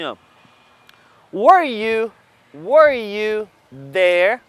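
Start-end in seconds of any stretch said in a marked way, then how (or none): 1.3-4.4 emphatic question. Shown as a demonstration. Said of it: "eu vou dizer assim".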